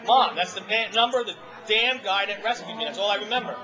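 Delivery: snapping back at his mom, upset and hurt; agitated. Retold or imitated. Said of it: "I'm getting agitated".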